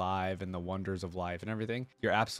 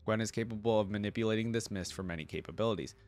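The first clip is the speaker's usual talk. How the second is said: even, measured article read-out; reading aloud. Acted. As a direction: read it out like an encyclopedia entry. Reads the character's lore aloud.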